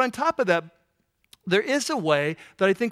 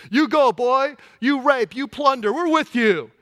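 higher, louder, sarcastic cheer for the bad guys; mock cheering fan; 3 semitones higher, 3 dB louder than usual. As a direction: hype up the villain like a mocking fan.

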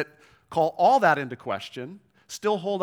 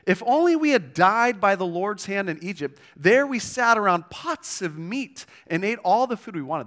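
cynical; 5 semitones higher, 6 dB louder than usual. Retold or imitated. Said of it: "listen to the cynicism".

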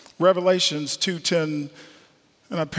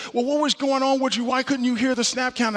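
quick, higher-pitched imitated Boston accent; Dick Stanfield's Boston accent; 5 semitones higher than usual. Coach presses lineman about the snap count, lightly imitated Boston accent. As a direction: lightly mimic a Boston coach questioning his player. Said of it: "his Boston accent".

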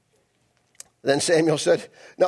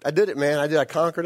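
high, hammed-up cheery hail; over-friendly high call; Saul; 4 semitones higher, 3 dB louder than usual. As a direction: call out a breezy mock greeting. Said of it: "And here he is".

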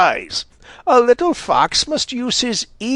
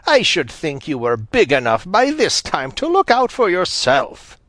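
put-on higher, cross old granny scolding; 9 semitones higher than usual. A narrator's reading. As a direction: scold like a vexed grandmother. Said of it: "said Granny Fox crossly".

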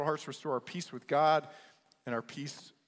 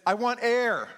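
high, loud, frantic cry for air; desperate gasp; 8 semitones higher, 9 dB louder, slower than usual. Retold or imitated. Young man held under the water begs for air. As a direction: plead for breath like you're drowning.

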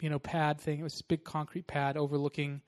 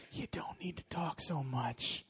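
much softer, slow gentle correction; gentle rebuke; 8 dB quieter than usual. Retold or imitated. The Lord nudging her to talk less, soft and slow. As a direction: say it softly like a loving hush.

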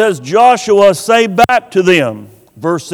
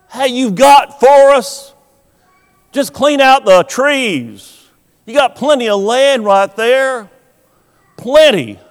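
higher, brisk dare; challenging retort; 4 semitones higher than usual. Retold or imitated. Joshua telling Joseph's tribe to clear forest, challenging. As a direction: toss it back at them.

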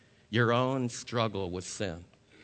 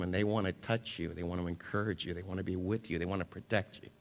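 softer, lower, intimate; hushed assurance; 4 semitones lower, 5 dB quieter, faster than usual. Acted. Preacher assuring congregation angels are near, hushed. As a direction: draw them close, almost confiding. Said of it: "soft assurance about angels".

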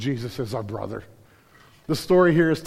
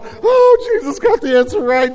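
joyful cry; 11 dB louder than usual. Pretend.

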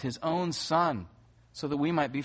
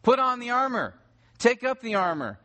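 louder and higher, hitting Put and Take; urgent command; 7 semitones higher, 3 dB louder than usual. Acted. Paul repeating his command to the church, loud and urgent. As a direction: bark the orders like a commander. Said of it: "shows it by repeating the command".

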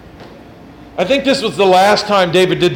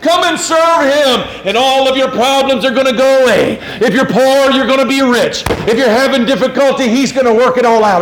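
higher, salesy prosperity preacher voice; mock preacher pitch; 4 semitones higher than usual. Pastor mocking false preachers to his congregation, salesy parody. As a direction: sell it like a cheesy TV preacher. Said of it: "People are like".

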